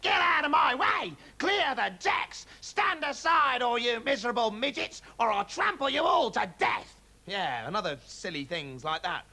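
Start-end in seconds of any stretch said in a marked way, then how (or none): 0.0-7.0 high, loud, slow bellow; old hag shouting from the galloping pony; wild shouting. A narrator's reading. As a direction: roar as she gallops.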